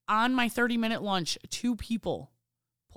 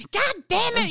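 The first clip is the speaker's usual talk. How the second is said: retold mom scolding; 14 semitones higher, 5 dB louder than usual. Mom scolding her kid.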